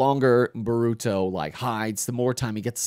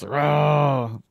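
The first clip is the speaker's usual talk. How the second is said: mock battle roar; 4 semitones higher, 4 dB louder than usual. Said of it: "go whole Tsunade Sage".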